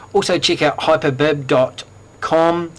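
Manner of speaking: put-on New Zealand vowels, hyperbib said with a Kiwi accent. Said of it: "that's my New Zealand accent".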